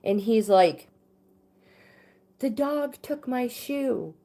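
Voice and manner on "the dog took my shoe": high, slow, lightly imitated child's wail; mock upset toddler. Toddler son to mother after waking from a nap, mildly imitated upset. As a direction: imitate a little kid distressed after waking, without volume. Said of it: "screaming from a nap".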